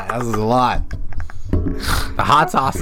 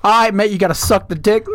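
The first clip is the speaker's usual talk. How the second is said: raised, hammed-up Aussie voice; mock Steve Irwin; 8 semitones higher than usual. Guessing what Steve Irwin tells women, in a mock Aussie voice. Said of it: "if Steve Irwin was the one telling women".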